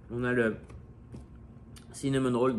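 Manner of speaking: talking with mouth full; words through a mouthful of donut; bouche pleine. Real, not acted. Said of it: "Désolé, c'est pas poli de parler la bouche pleine". (la bouche pleine)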